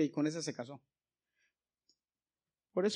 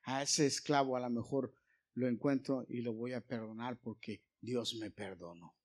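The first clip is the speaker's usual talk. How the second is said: the changed master, now tender and forgiving; 4 semitones lower, 3 dB quieter than usual. Acted. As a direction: lower and softer, gentle forgiveness. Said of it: "ya Filemón decía".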